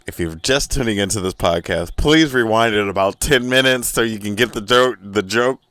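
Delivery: loud, high, exasperated plea to rewind; exasperated shout. Real, not acted. Comedian yelling at listeners who missed the joke, exasperated. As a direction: yell at the newcomers to go back.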